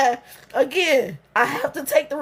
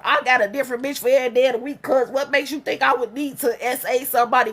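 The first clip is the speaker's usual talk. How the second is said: fast, lower, smug mock of the guy; mocking his words; 3 semitones lower, faster than usual. Mocking the man who assaulted her, fast and smug. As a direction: sneer his boast back at him. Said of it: "He tell about some".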